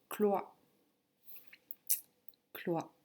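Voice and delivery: slow dictation, syllable repeated after a pause. Shown as a demonstration. Teacher giving a pupil the last syllable to write, slow dictation. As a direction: dictate it slowly and evenly. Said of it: "Je vais te dicter".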